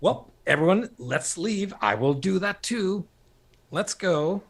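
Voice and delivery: high, lofty, imperious voice; grand hollywood dame. Retold or imitated. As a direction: sweep everyone out grandly. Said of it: "Cameron's going".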